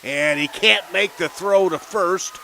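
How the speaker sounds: loud, high, rapid-fire call as the run scores; excited play call. Real, not acted. Announcer shouting the big play to radio listeners, excited and loud. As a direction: let it erupt as the ball gets away.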